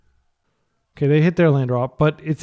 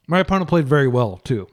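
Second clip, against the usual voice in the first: mouth full; 2 semitones lower than usual. Real, not acted. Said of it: "Sorry, I'm eating an apple".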